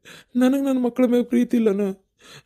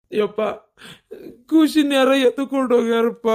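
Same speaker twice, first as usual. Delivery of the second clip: crying; 3 semitones higher than usual. Acted. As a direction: blurt the bad news through tears. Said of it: "ಹೆಣ್ಮಕ್ಳಕ್ಕಿಂತ ಬಲ ಅಳಾಕತ್ತಿಯಲ್ಲ". (ಅಳುತ್ತಾ ಹೇಳುವುದು)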